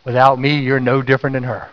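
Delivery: low, grave divine voice; voice of God. Retold or imitated. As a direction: speak it down low as the Lord's rebuke. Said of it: "And he said".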